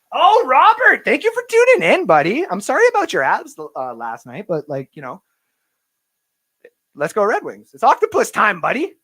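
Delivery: excited shoutout. Real, not acted. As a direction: hype up the viewer by name. Hyped shoutout to live chat.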